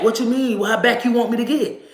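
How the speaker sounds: high, mocking how-far-back question; sassy protest. Stepping back while sassing the officer, mocking. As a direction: talk back to the cop with attitude.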